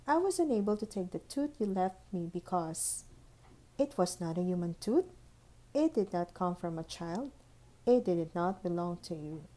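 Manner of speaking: prim, crisp fairy voice reading out a refusal; stern tooth fairy letter. Acted. Tooth Fairy's letter to Holly, prim and stern.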